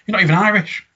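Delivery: high, loud imitation of a protest; mock protest. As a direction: protest it indignantly, imitating the comic. Quoting Peter Kay's protest.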